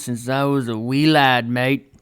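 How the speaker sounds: lightly put-on British Isles accent. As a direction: slip into a wee-lad accent, lightly. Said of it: "I don't know why I use that accent".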